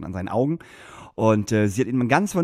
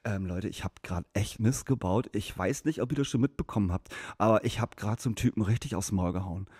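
much softer, low, remorseful mumble; mock sheepish apology; sheepish confession; 4 semitones lower, 7 dB quieter than usual. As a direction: confess quietly like a guilty guy. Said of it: "sagt so".

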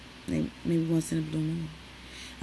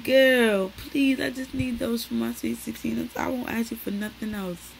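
begging mother; 5 semitones higher, 4 dB louder than usual. Retold or imitated. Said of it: "I said".

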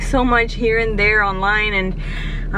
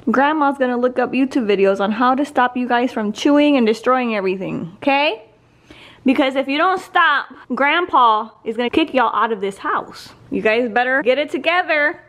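louder playful scolding of pets; mock scolding; 5 dB louder than usual. Real, not acted. Grandma scolding the bunnies for chewing, louder mock scolding.

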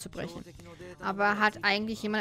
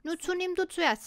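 hesitant offer, pitched higher; 8 semitones higher than usual. Acted. Girl shyly offering him the first bite, hesitant. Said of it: "sagte sie zögerlich".

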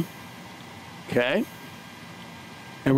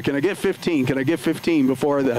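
light auctioneer patter; faster than usual. Acted. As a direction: rattle off the bids like an auctioneer. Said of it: "I sound like an auctioneer".

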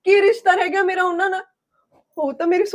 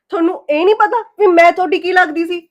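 angry retort; 5 dB louder than usual. Acted. Wife fires back in quarrel.

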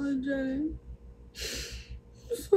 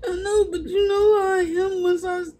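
crying excuse; 3 semitones higher, 4 dB louder than usual. Real, not acted. Liz's tearful apology on live.

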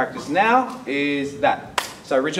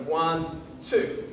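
ONE drawn out, then TWO as a separate beat; two syllable count; 5 dB quieter than usual. Shown as a demonstration. Teacher showing students a split technique, ONE and TWO dragged apart. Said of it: "you're creating an extra movement".

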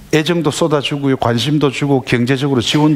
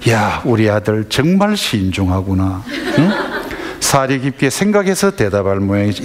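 mock admiration; 3 semitones lower than usual. Parent facing a silent son, ironically admiring.

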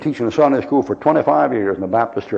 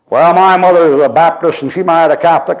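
put-on interrupting girl; 4 semitones higher, 4 dB louder than usual. Catholic girl keeps interrupting.

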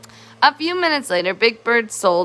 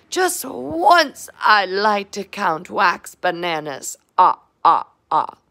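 Count voice; 5 semitones higher than usual. Acted.

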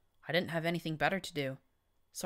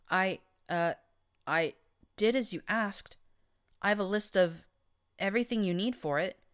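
little timid voice; 4 semitones higher, 4 dB louder than usual. A narrator's reading. Mousy mare reporting to the Overmare, small timid voice. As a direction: shrink away as you answer. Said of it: "in a little timid voice".

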